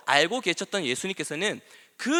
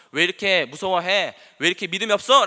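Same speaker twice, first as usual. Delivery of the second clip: mildly voiced retold scolding; 예수님; 5 dB louder than usual. Preacher quoting Jesus to the disciples, mild scolding. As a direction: imitate a rebuke, building louder. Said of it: "라고 꾸짖으셨던".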